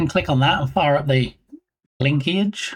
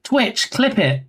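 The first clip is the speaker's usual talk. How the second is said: slow command to Twitch; 5 semitones higher, slower than usual. Shown as a demonstration. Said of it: "We can say".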